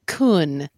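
KUN low, without the sharp rise; missing upward intonation. Shown as a demonstration. Learner failing the Vietnamese tone, missing upward intonation. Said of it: "still not doing the upward intonation".

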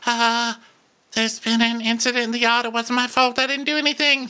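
high, frantic mock panic; panicked nurse. Terrified nurse reporting the fight in a high, panicked voice. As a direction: babble it like a scared servant. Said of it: "poor, terrified nurse girl".

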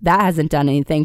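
hoarse from a cold; rough, raspy sick voice; smoker's rasp. Real, not acted. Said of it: "I sound like a chain smoker right now".

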